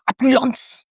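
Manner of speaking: Opulence said French-style, OH-pu-LAHNCE; mock French. Shown as a demonstration. A mock French Opulence for the viewers. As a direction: try a playful French Opulence. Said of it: "Can't blame a girl for trying".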